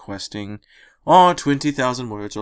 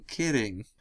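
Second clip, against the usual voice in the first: quieter second kidding, falling away; soft trailing repeat; 9 dB quieter than usual. Acted. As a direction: let the second kidding fade. Dash backs off joking.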